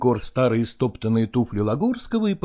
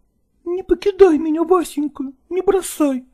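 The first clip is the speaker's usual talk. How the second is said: put-on higher, pleading young woman; 12 semitones higher than usual. A narrator's reading. Nastina begs Lagorsky to let her live with him, higher pleading. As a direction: beg him not to leave. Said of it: "упрашивала она".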